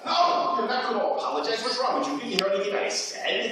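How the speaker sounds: acted exasperation. Actor redoes the same outburst.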